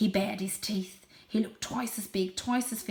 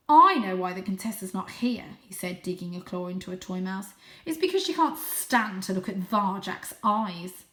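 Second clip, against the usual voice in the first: taunting bully; 6 dB louder than usual. Acted. Julius taunts Varjak.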